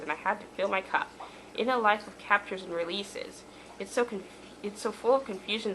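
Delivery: measured, rhyming recitation; poem reading. Real, not acted. Poet reading a poem about lost friendship, measured recitation. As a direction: read your verse with an even lilt. Reads poem written as character.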